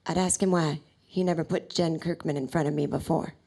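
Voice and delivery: low-pitched deadpan impression; Prince. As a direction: answer low, in a star's voice. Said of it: "And he said".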